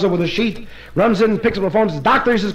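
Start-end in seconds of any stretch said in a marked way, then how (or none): 2.0-2.3 high, rising summons; urgent call. Acted. Husband phoning the doctor about his stuck wife, urgent. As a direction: call out for help down the phone.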